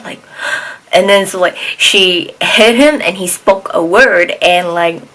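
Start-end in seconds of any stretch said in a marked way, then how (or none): 0.4-0.9 quiet mock gasp; soft, airy gasp of acted shock; stunned gasp. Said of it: "he's just like".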